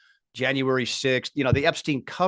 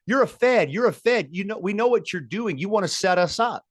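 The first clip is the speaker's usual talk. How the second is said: mock crowd accusation; 7 semitones higher than usual. Crowd members accusing Ray Epps of being a Fed, mock shouting. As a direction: call him out like an angry protester. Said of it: "what did the people in the crowd start saying".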